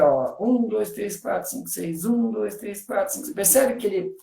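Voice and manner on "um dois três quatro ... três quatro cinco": musician's beat count, "um" stronger, "quatro, cinco, seis" softer; counting in six-eight. Shown as a demonstration. Teacher explaining six-eight in music, rhythmic count from "um". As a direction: count "um, dois, três, quatro, cinco, seis" evenly, leaning on "um". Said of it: "o compasso seis por oito na música".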